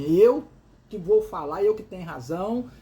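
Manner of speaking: a retold, half-hearted domineering shout; bossy, insisting on having the last word. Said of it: "ela sobe o tom de voz".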